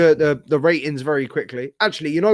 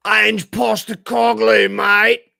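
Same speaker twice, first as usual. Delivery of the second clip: loud, slow and higher, calling out a name; exasperated shout; 6 semitones higher, 6 dB louder, much slower than usual. Real, not acted. Fan yelling the manager's name at the TV. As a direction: bellow it at the TV in disbelief. Screaming at the T V.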